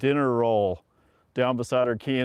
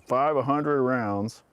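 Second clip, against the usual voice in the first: loud, slowly drawn-out order; emphatic retold command; retold sergeant's order; 2 semitones higher, 5 dB louder, much slower than usual. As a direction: hammer it out like a drill sergeant. Retold drill sergeant giving orders.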